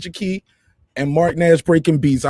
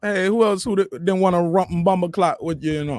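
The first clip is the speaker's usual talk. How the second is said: badly faked Jamaican patois; terrible Jamaican accent. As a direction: have a clumsy go at a Jamaican accent. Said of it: "That's a terrible accent. I tried, though".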